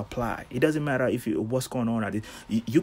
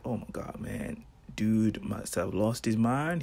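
mock disciples whisper; 4 dB quieter, slower than usual. Disciples voiced, hushed and slow.

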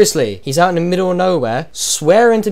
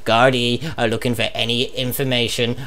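Pascal Sheehy; 2 semitones lower than usual. Pretend. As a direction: read it like the evening news anchor. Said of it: "with me, your host, Pascal Sheehy".

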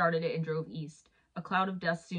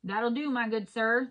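slow, higher, louder tipsy voice; tipsy gentleman; 5 semitones higher, 5 dB louder than usual. A narrator's reading. Tipsy driver answers the attendant, acted merry drunk. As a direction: play a merry drunk drawing out the words. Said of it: "obviously somewhat inebriated man stepped out".

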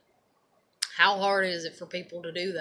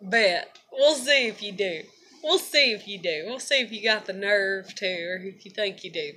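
defiant challenge. Retold or imitated. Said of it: "And I was just like".

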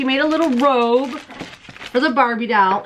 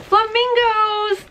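much higher, slow and drawn-out delight; excited reveal; 11 semitones higher, much slower than usual. Real, not acted. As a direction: unveil it like a prize. Reveals the flamingo bag.

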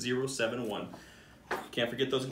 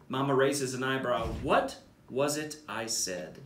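put-on lively storybook reading for kids; animated bedtime-story narrator; read-aloud narration. A narrator's reading. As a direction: read it like a picture book to a class. Principal reads picture book aloud.

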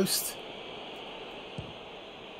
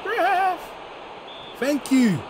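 excited; 13 semitones higher than usual. Real, not acted. Reacting to referee call.

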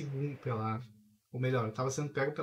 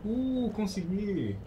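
higher, slow drawn-out win; relieved triumph; 7 semitones higher, 3 dB louder, much slower than usual. Real, not acted. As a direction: savour the narrow escape. Escapes the creatures in game.

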